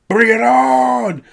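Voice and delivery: drawn-out, high yelled bring it on; mock Cena shout. Cena hyping up the crowd, a slow high yell.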